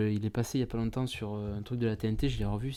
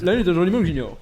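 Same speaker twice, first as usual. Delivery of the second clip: high, loud political-figure impression; hammed-up mimicry, high and projected; Henri de Lesquen; 6 semitones higher, 8 dB louder than usual. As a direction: push the voice up into a mannered caricature. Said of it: "Henri de Lesquen".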